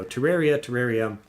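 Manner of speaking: Terraria and terrarium with the same middle sound; technical pronunciation. Shown as a demonstration. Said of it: "I think is the technical pronunciation".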